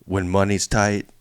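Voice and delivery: movie trailer voice. Shown as a demonstration. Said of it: "you have to do the movie voice".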